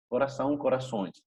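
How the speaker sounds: Corazón as "corasaun", corazones as nasal "corasõis"; nasal "aun" turning to nasal "õis" in corazones; nasal Portuguese endings. Shown as a demonstration. Teacher repeats singular and plural, Corazón ending in nasal "aun". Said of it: "hay que leerlas como nasales".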